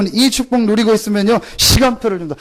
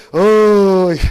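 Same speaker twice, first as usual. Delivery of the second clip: louder, curt "어이"; annoyed grunt; 5 dB louder, much slower than usual. Retold or imitated. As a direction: toss out a disapproving "어이". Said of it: "그럴 텐데".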